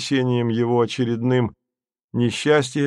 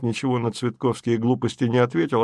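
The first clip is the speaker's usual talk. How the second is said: plain reading voice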